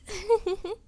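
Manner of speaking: a nervous little giggle; shy laugh. Acted. Nervous woman to her date, shy giggle. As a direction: laugh shyly, high and light.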